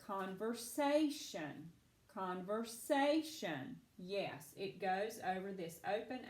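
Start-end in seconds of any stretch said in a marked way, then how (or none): 0.0-3.8 "conversation" drawn out slowly, leaning on SA; stress on SA. Shown as a demonstration. Teacher reading for Jasper to find the accent, slow "conversation" with stress on SA. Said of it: "You tell me where that accent goes".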